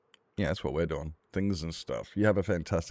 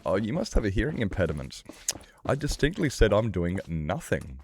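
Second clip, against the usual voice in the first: higher-pitched, put-on exasperated retort; mock indignation; 4 semitones higher than usual. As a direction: act out being affronted at not being heard. Acting indignant reply to pub invitation.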